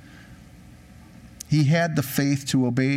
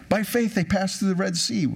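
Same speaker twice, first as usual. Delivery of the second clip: higher-pitched mock-pious quote; sarcastic; 6 semitones higher than usual. Real, not acted. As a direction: recite it with sarcastic admiration. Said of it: "I'm being sarcastic".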